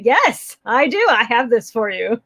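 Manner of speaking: proudly playing the magical provider. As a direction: act like you pulled off magic. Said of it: "You feel, like, magical".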